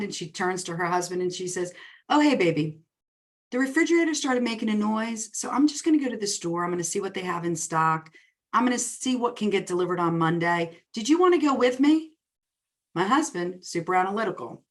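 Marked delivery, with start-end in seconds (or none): 2.1-12.1 breezy excited announcement. Retold or imitated. Wife announces fridge trip to husband.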